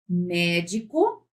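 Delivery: "Médico" lento, separado em sílabas; sílaba por sílaba. Shown as a demonstration. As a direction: escande "Médico" devagar, em tom mais grave. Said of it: "para separar sílabas". ("Médico" dito pausadamente)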